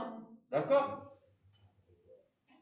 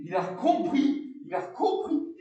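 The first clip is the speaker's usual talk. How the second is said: thrilled parent, higher and louder; mock excited parent; 6 semitones higher, 4 dB louder than usual. Parents marvelling that the baby understood, excited. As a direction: gush like a proud parent. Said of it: "vous dites".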